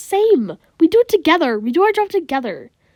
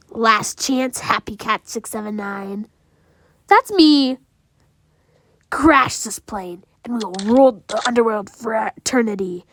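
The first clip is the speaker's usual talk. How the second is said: sneering panto villain; 3 semitones lower than usual. Acted. Monster threatens the players.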